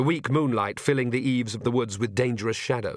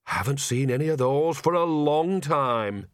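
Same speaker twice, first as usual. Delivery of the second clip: put-on old witch voice; 3 semitones higher, slower than usual. Nanny Ogg's spoken lines.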